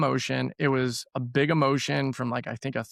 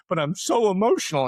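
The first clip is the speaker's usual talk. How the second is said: teary; 6 semitones higher, 3 dB louder than usual. Retold or imitated. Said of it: "started to get teared up".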